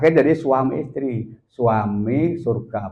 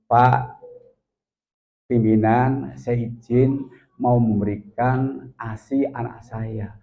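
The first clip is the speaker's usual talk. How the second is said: slow, lightly acted polite request; pleasant polite request; 3 dB quieter, much slower than usual. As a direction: ask permission gently, taking your time. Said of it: "itu ngomongnya enak banget ngomongnya".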